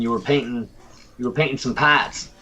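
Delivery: lightly put-on Boston accent; Boston-style vowel on "pats". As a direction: tease with broad Boston vowels. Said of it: "Are we going with our best Boston accents".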